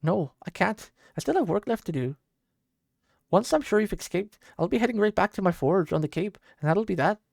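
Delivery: lightly voiced old soldier, brusque; gruff farewell. Old soldier sending the girl away, gruff. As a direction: push her away gruffly.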